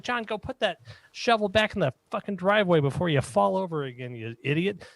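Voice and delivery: put-on high scolding old lady; yelling old woman. Old woman ordering husband John inside, high scolding yell. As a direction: berate him like a fed-up wife. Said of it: "while she's yelling at me".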